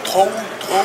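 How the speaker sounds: throw, throw attempted as "tow, tow" in a French accent; hesitant English. Real, not acted. Vlogger fumbling an exercise's English name, hesitant "throw, throw". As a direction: try THROW twice, high and unsure, with a French accent. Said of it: "je sais pas le prononcer".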